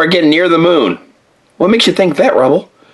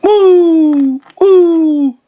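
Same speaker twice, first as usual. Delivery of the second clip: bouncy wows; 13 semitones higher than usual. Acted. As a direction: yelp with each bounce. Bouncing high on the moon.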